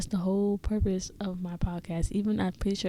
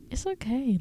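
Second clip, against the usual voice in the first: ordinary talk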